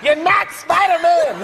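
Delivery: high, slow shout spelling out "not Spider-Man". Retold or imitated. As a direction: drag it out to make him listen. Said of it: "I yelled, I got so mad".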